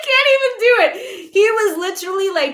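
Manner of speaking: high, loud laughing squeal; helpless high-pitched laughter through the words. Real, not acted. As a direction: crack up mid-impression. Cracks up imitating him.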